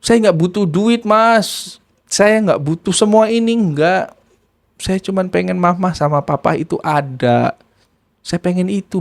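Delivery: drawn-out, pleading imitation of a child; mournful, stretched-out begging, understated; retold tearful plea. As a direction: lightly act a weepy appeal. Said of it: "dia ngomong begitu".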